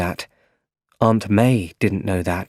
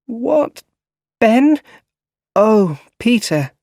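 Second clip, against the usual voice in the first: confused waking; 13 semitones higher, 5 dB louder, slower than usual. Acted.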